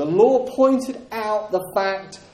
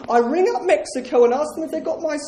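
mocking quote; 7 semitones higher, faster than usual. Mock quote of released prisoners.

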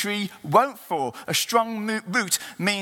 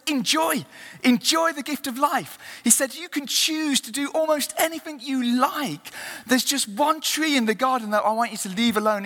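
high, solemn voice of God; God's voice; 4 semitones higher than usual. Acted. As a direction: speak as God, lightly raised. God speaks to Adam and Eve.

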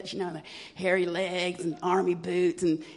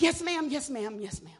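meek yes ma'am; 6 semitones higher than usual. Retold or imitated. Cowed daughter answering mother.

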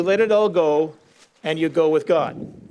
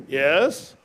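lightly voiced, lower, calm voice of God; 4 semitones lower than usual. God answers the man on the cliff, lower and calm. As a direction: answer calmly from above, a hint of lower. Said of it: "This voice comes and says".

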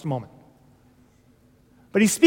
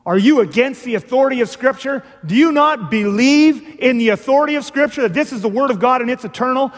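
louder, higher scolding challenge; lambasting; 4 semitones higher, 4 dB louder than usual. Acted. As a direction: scold like a stern reformer. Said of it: "he would just lambaste you".

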